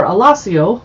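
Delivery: lightly put-on Italian accent. Shown as a demonstration. Host reading chapter names in an Italian accent. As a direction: say the town name the Italian way. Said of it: "my Italian accent".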